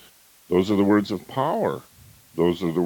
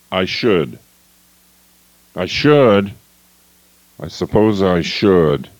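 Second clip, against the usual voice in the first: heavy, resigned; reluctant should; 4 dB louder, slower than usual. Shown as a demonstration. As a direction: sigh it out with no will. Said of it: "Victim language".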